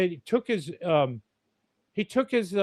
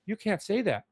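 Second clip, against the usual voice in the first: high, fussy scandalized gasp of a warning; casting guy impression; 6 semitones higher than usual. Casting guy warning the new actor on set, high and scandalized. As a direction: clutch your pearls and hush him, Tom, Tom. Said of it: "He go".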